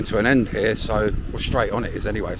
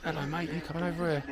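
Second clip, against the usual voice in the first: quoting Tam; 8 semitones higher, 9 dB quieter, faster than usual. Retold or imitated. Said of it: "like Tam said".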